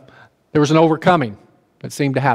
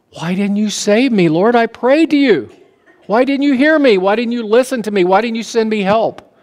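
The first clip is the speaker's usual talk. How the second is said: pleading man; 6 semitones higher than usual. Acted. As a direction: plead with the Lord, hurt and bewildered. Drowned man pleading with God.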